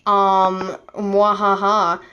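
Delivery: slow, smug villain taunt; lightly voiced gloating villain; sneering panto villain. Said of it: "he's like".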